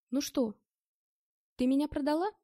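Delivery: rising loud accusation; strange voice. Acted. Drugged man accusing the girl, strained loud voice. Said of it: "спросил я не своим голосом".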